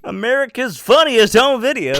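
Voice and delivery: high, loud shout-out through laughter; real laughing. Real, not acted. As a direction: crack up while calling it out. Joking answer amid group laughter.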